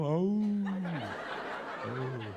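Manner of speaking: imitated howl of stray dogs; drawn-out mock howl. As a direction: howl like a dog at the window.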